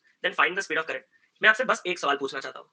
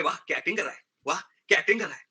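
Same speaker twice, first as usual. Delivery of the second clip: mock praise. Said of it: "वो जब बुलाई होगी दीपिका पादुकोण को".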